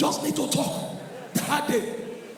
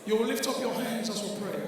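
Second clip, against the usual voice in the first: soft, low pastor leading gentle prayer; quiet, well-mannered church voice; posh modern prayer; 5 semitones lower, 9 dB quieter than usual. Acted. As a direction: lead the prayer softly, low and genteel. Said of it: "Jebo way now".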